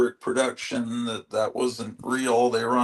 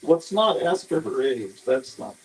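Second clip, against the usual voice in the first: talking with a toothbrush in; words round a toothbrush; while brushing teeth. Real, not acted. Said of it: "Sorry, I'm brushing my teeth".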